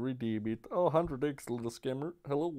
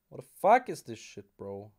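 angry outburst; 2 semitones lower, 4 dB louder than usual. Real, not acted. Raging at slot loss.

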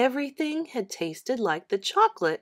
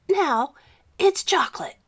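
showing off; 7 semitones higher, 4 dB louder than usual. Acted. John shows the trick.

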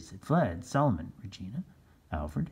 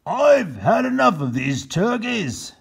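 loud, slow exasperated captain; fed up; 11 semitones higher, 7 dB louder, slower than usual. Acted. Captain Bill giving up to his men, exasperated. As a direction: grumble it in defeat. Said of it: "said Captain Bill".

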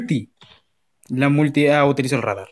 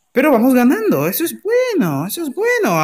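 panicking gamer; 10 semitones higher than usual. Real, not acted. Cheering during match.

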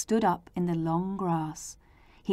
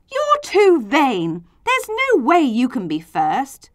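raised, higher indignant protest; shouted; 5 semitones higher, 5 dB louder than usual. A narrator's reading. Other letters objecting to boastful Z, shouting. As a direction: call it out loudly in objection. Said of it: "The other letters shouted".

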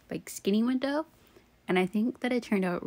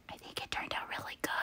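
suddenly whispered, very soft, a little quick; 13 dB quieter, faster than usual. Pretend. Vlogger to viewers late at night, whispering. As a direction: drop to a secret whisper about "good".

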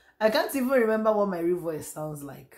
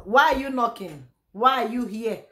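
raised voice toward the knocking at the door; calling out; 4 semitones higher, 5 dB louder than usual. Real, not acted. To the visitor knocking at her door, a loud puzzled call.

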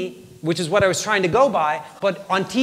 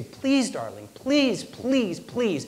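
understated begging, each please separate; desperate pleading; 4 semitones higher, 3 dB quieter, much slower than usual. Retold or imitated. Retold pleading over lifeless baby.

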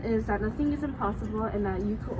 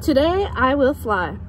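loud, eager little pig announcing his plan; Piggy's eager voice; 10 dB louder, slower than usual. Acted. Piggy tells Elephant his big plan, loud and eager. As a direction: proclaim it like a hopeful piglet.

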